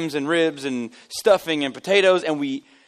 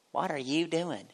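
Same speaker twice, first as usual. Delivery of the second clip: unfriendly stranger; 9 dB quieter, slower than usual. Retold or imitated. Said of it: "even the way that she spoke changed".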